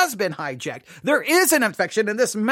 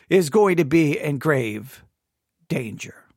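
much lower, slow, fading to a hush; dramatic hush; 6 semitones lower, slower than usual. Acted. Preacher warning the church, sinking to a dramatic hush. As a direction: sink the voice on grave danger.

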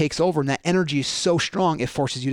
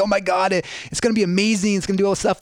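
higher, quicker mock gushing; excited holidaymaker; 5 semitones higher, faster than usual. Traveler gushing on arrival at the vacation, mock excitement. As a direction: imitate someone thrilled about a trip.

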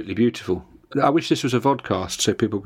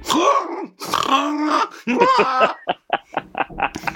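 wild boar noise. Retold or imitated. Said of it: "found myself up in a tree going".

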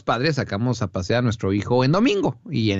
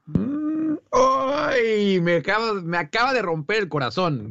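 corazón roto; 8 semitones higher, slower than usual. Pretend.

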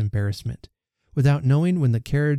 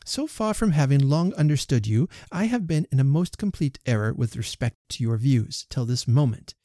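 a touch higher, firm and composed; lightly voiced offended young lady; Emma's refusal; 4 semitones higher than usual. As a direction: set him straight politely. Emma corrects Elton.

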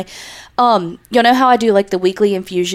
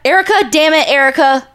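mock exasperated; 7 semitones higher, 4 dB louder than usual. Real, not acted. Mock cursing at the fan.

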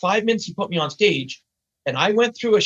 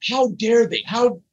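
mock indignation, higher pitch; freaking out; 5 semitones higher, slower than usual. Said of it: "they're freaking out".

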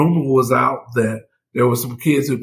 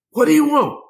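much higher-pitched challenge; defiant mother; 13 semitones higher, 3 dB louder than usual. Retold or imitated. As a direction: imitate a mother challenging whoever is knocking. Mother challenges agents at door.

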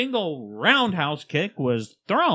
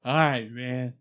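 a singer's voice; 2 semitones lower, 3 dB quieter than usual. Pretend. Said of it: "I'm a singer".

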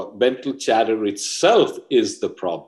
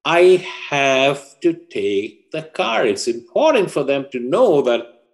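higher, emphatic teenage insistence, acted; insistent son; 5 semitones higher, 4 dB louder, slower than usual. Son telling Mom he needs the car, acted emphatic insistence. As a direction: press the point on Mom, pitched up.

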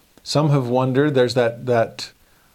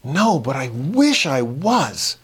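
deadpan, slow and even; straight face; 3 semitones higher, slower than usual. Retold or imitated. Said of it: "said with a total straight face".

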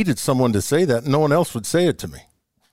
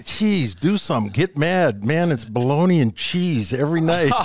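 imitated exasperated ribbing; 5 semitones higher than usual. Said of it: "He used to go".

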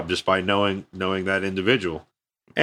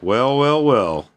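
drawn-out, smug acted greeting; mock gloating greeting; slower than usual. New boss greeting his old colonel, mock gloating.

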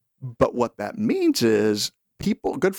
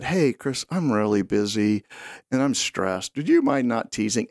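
calm request; 2 semitones lower than usual. Retold or imitated. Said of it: "she could have calmly said".

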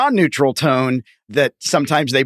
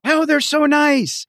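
naively trusting; 12 semitones higher, slower than usual. Retold or imitated. Naive trusting person, mocked.

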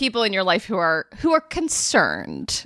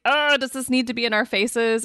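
higher-pitched mock exasperation; mildly annoyed; 6 semitones higher than usual. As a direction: voice a mild parental grumble, pitched up. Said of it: "I might feel a little annoyed".

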